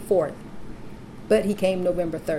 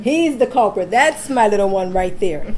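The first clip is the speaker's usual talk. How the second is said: playful proud announcement; 5 dB louder than usual. Real, not acted. Mother presenting her son as the culprit, playful and loud. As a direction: show someone off with a laugh.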